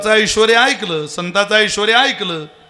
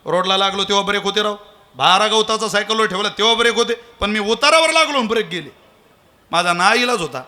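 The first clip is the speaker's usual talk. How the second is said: pleading excuse; faster than usual. Retold or imitated. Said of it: "तो म्हटला".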